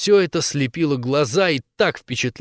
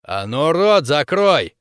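slow, harsh bark; slow angry bark to shut her up; 4 dB louder, slower than usual. Acted. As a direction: snap her silent. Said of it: "рявкнула подоспевшая Хоуп".

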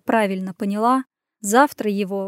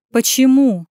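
louder, a mild growl of a demand; 3 semitones higher, 7 dB louder than usual. Acted. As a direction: snap the question out gruffly. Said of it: "прорычал он".

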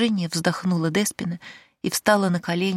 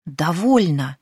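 exclaimed; 4 dB louder, slower than usual. Acted. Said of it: "покраснев, воскликнула девушка".

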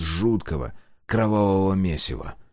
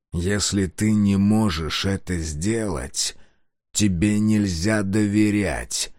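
threatening; slower than usual. Acted. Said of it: "с угрозой произнёс Сайлос".

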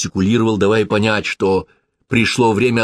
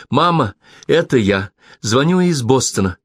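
high, tense and hopeful; bright nervous voice reaching out to mother; nervous eager daughter; 6 semitones higher, 3 dB louder than usual. A narrator's reading. Daughter calling estranged mother.

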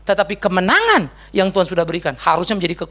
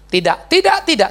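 refusing; 6 semitones higher, 3 dB louder than usual. Retold or imitated. God's refusal voiced.

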